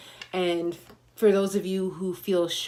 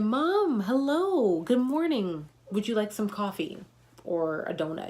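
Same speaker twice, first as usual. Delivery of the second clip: bright greeting; 3 semitones higher than usual. Retold or imitated. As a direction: greet her sunnily like a friendly visitor. Greeting elderly patient cheerfully.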